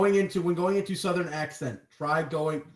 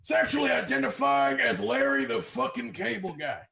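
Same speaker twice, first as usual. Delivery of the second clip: joke yell; 4 semitones higher than usual. Acted. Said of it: "at least when I yell".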